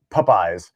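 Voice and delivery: Popeyes with first syllable like "pup"; imitated odd pronunciation. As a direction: say Popeyes as PUP-eyes, slowly. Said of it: "the way you say Popeyes".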